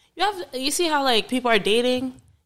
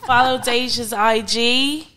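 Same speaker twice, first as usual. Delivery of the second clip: put-on British sign-off; British accent. Co-host plugging Instagram pages, British accent. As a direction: keep up the British accent while fumbling the plugs. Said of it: "close out in your British accent".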